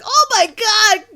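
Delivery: high, loud stunned exclamation; mock shock. Telling friends how she reacted, in loud mock shock. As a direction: gasp it out in fake horror. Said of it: "I'm like".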